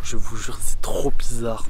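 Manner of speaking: slow dazed whisper; spaced-out hushed voice. Real, not acted. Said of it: "mon esprit se déconnecte de mon corps".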